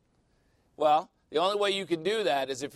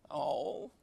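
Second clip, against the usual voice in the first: doting, loving God; 5 semitones higher, much slower than usual. Acted. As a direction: play an adoring God, half laughing. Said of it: "how does he look at us?".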